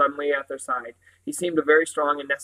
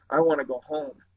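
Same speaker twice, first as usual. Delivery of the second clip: miserable. Acted. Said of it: "Jane said miserably".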